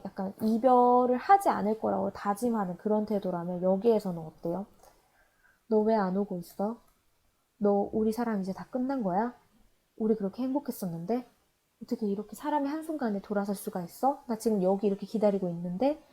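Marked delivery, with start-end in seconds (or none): 5.7-16.0 soft, quick, hurt questioning; a jilted lover pressing quietly, half accusing; resentful plea. Retold or imitated. Poem's speaker to the absent lover, soft resentful questioning. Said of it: "원망하는 마음이 되게 많이 들어가".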